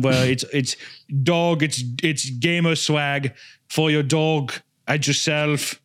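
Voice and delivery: put-on lightly accented channel-update voice; mock-sincere influencer announcing personal growth; Hitler as earnest vlogger. Vlogger tells fans about a big channel change, mock earnest.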